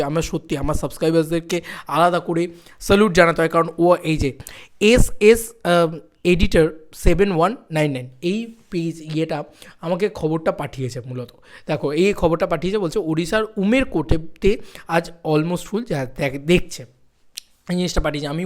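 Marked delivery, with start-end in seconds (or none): none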